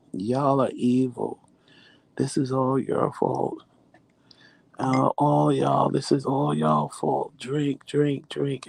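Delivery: high, slow, drawn-out complaint; mock whiny blame. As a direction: imitate a suffering husband accusing everybody. Imitates sick husband blaming everyone.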